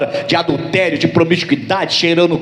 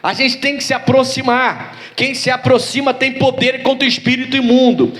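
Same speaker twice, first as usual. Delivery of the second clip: raised-pitch, insistent sermon delivery; fervent preacher's exhortation, pitched up; preaching; 6 semitones higher than usual. Real, not acted. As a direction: press each point home to the congregation.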